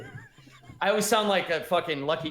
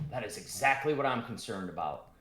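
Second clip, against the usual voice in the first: dwarf Gundren; 5 semitones lower than usual. Acted. DM voices worried dwarf.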